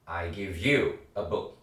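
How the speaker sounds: very slow, every word separated; slow drill. Shown as a demonstration. Teacher modeling the sentence slowly. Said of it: "이렇게 연습되겠죠".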